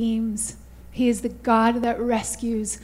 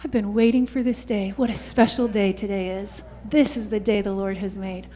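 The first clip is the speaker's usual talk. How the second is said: tender welcome; 4 semitones lower, 4 dB quieter than usual. Acted. God welcoming the repentant in reply.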